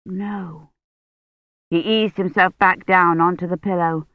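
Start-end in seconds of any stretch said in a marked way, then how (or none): 0.1-0.7 barely audible, tired; faint weak no. Acted. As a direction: breathe out a weak no. Weak patient answering.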